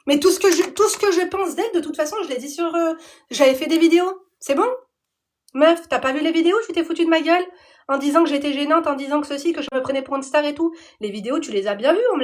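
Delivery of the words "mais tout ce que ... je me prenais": louder, higher annoyed tirade; heated rant. Real, not acted. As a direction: tell her off hard.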